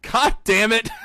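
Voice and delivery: a lightly voiced groan of the injured partier; same party guy, deflated. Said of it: "It's like".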